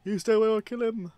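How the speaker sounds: high, loud, fast threat; threatening shout. Retold or imitated. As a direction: scream the threat at him. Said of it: "It's like".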